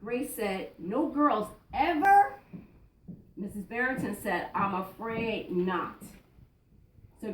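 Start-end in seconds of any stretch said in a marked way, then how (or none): 0.8-2.4 slow, louder question rising on EVER; disbelieving question. Acted. Grace asks her teacher about women presidents, disbelieving. 4.5-6.0 slow, lower, regretful answer; mild regret. Acted. Teacher tells Grace there have been none, mildly regretful. Teacher breaks bad news to pupil.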